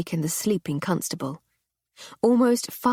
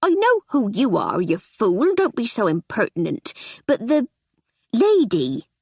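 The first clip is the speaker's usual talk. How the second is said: housekeeper; 3 semitones higher, 4 dB louder than usual. Acted. Housekeeper scolds.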